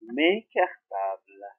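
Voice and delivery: "mes" slow and drawn out; stress on mes. Shown as a demonstration. Teacher stressing "mes" slowly for pupils. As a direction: stretch out "mes cartables". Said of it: "Dans le pluriel, je dis".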